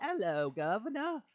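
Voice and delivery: hammed-up attempt at an Irish accent; bad Irish accent. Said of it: "Let me do my Ireland accent".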